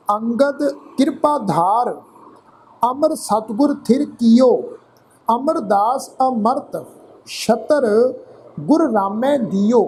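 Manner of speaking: slow, measured Gurbani reading with drawn-out word endings; scripture recitation. Shown as a demonstration. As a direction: recite phrase by phrase, pausing between.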